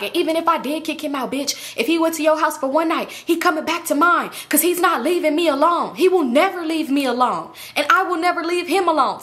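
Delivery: hammed-up jealous threats; mocking angry baby mama. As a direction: play the girlfriend going off. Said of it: "She was like".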